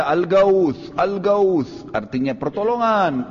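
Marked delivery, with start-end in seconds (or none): 0.0-1.9 retold shout for help. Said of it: "Dia teriak".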